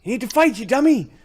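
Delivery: high-pitched urgent battle shout; rally the group in a high, strained yell. Acted. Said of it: "That's Arlen yelling".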